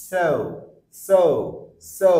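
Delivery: so said with rounded lips, gliding o; rounded example word. Shown as a demonstration. Teacher drilling so for students. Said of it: "মুখটা গোল হবে গো".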